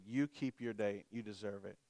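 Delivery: soft, low father's reassurance; retold gentle dad. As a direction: quietly grant it, as the dad. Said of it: "my dad apologized to me".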